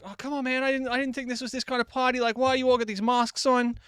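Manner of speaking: high-pitched retelling of a bewildered protest; mock-distressed high voice; retold protest. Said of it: "I was like".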